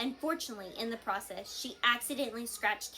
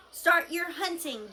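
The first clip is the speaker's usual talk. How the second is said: louder, higher, slow drawn-out yell; yelled command; 7 semitones higher, 6 dB louder, slower than usual. A narrator's reading. Gobber yells to start the dragons' hunt. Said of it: "yelled Gobber the Belch".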